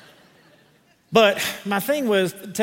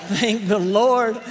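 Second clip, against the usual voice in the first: laughing through it, slow and higher; laughing relief at a crowd joke; 4 semitones higher, much slower than usual. Real, not acted. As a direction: chuckle the words out slowly. Joking about bugs and humidity.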